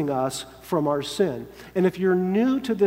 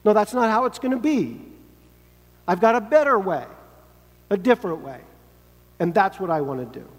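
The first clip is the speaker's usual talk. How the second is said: controlling Peter; 3 semitones higher, faster than usual. Acted. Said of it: "he says".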